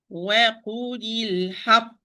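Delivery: "وَقُولِ الْحَقِّ" with a push before the closing ق; nabr on final qaf. Shown as a demonstration. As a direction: push the sound into the stopped ق of "الْحَقِّ". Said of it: "Like push in sound".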